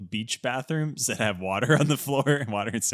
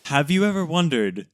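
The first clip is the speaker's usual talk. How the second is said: Roman Mars. Acted. Podcaster parodying another show's opening, mock-earnest host voice. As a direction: pose a wondering question like a radio host. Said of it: "I'm Roman Mars".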